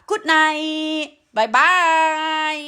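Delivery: slow lilting goodbye to viewers; drawn-out good night. Real, not acted. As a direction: stretch out every syllable of "Good night บ๊ายบาย" as a lingering farewell. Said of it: "Good nightค่ะ".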